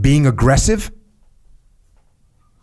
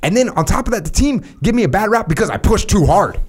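mock asker; 8 semitones higher than usual. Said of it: "going hard on my boy".

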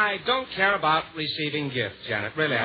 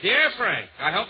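letter read-out. Acted. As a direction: read out the greeting as a letter begins. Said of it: "She starts off".

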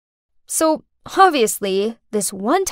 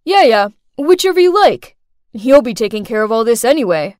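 offhand, loud brush-off; unbothered; 5 dB louder than usual. Acted. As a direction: wave it away as not your problem. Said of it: "he was totally unbothered".

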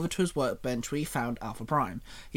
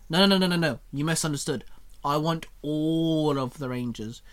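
grinning. Acted. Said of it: "Shinon grinned".

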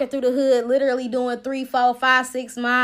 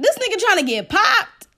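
high-pitched acted disbelief; retold astonished question; incredulous reaction; 8 semitones higher, 3 dB louder than usual. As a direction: exclaim in mock disbelief. Incredulous reaction to man jogging over.

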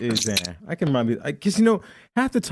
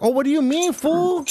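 Cholo accent, pitched way up and mocking; mocking East L A Cholo accent, much higher. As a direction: spit out fool in a high, exaggerated Cholo accent. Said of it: "They'll be like".

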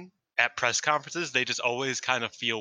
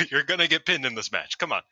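higher-pitched, amused mock telling-off; laughing scolding; 5 semitones higher than usual. Acted reply, laughing through it.

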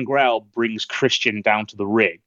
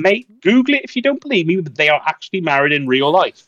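exasperated insistence; 6 semitones higher than usual. Retold or imitated. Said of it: "It was like".

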